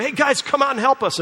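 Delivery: high, loud call to the boat across the water; hollering out. Retold or imitated. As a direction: call out to friends a hundred yards off.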